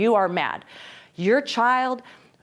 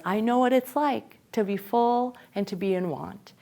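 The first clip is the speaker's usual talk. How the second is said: quoting Paul; 4 dB quieter than usual. Retold or imitated. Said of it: "the Apostle Paul says".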